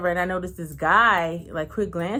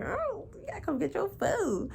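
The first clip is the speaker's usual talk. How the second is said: flirty; 11 semitones higher, 7 dB quieter than usual. Retold or imitated. Flirty line she thought.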